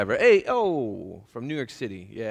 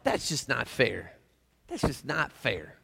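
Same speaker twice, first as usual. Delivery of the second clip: slow, sulky complaint; mock whine; 3 dB quieter, slower than usual. Pastor voicing a congregant's slow gripe. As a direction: drag it out like a sulking kid. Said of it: "write down something that you were thinking".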